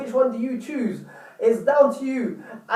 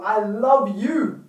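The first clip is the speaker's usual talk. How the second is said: slow, drawn-out, sincere declaration; heartfelt; much slower than usual. Shown as a demonstration. Showing how to tell a partner, slow and heartfelt. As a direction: put heart and soul into it, slowly. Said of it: "say with heart, body, mind, and soul".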